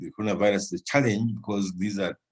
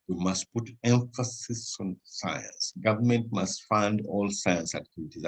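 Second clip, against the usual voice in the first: "We must put emphasis on science" said slowly and softer, each word weighed; slow insistent repeat; 2 semitones lower, 5 dB quieter than usual. Shown as a demonstration. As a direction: repeat it slowly to drive the point home. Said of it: "I've said this a thousand times".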